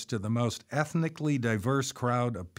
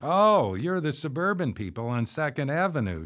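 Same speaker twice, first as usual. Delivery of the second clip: exclaiming; 6 semitones higher than usual. A narrator's reading. Woman being introduced to the new neighbors, exclaiming. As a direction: burst out on a high "Oh". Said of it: "she exclaimed as she was introduced to us".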